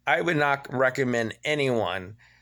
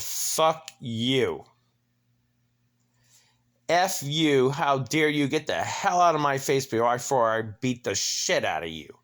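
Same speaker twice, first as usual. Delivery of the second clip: retold angry retort; 3 semitones higher than usual. Furious retort to condo president.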